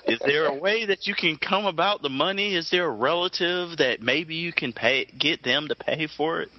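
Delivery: pushy collector asking for money; firm debt collector. Acted. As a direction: press them politely for payment. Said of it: "you sound like a bill collector".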